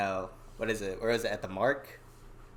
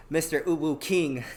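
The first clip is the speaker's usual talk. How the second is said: laughing; 6 semitones higher, 3 dB louder than usual. Real, not acted. Host laughs while naming guest.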